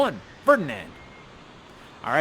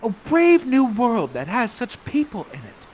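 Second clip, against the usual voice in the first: lightly acted wonder, higher pitch; Miranda's line of wonder; 4 semitones higher, 5 dB louder than usual. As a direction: play Miranda marveling at a new world. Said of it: "You have a great line".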